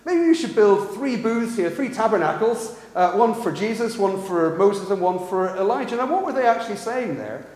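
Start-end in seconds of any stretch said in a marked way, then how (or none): 0.0-6.0 a hint of keen enthusiasm; eager Peter. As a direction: pitch it up like an eager disciple. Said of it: "Peter immediately goes".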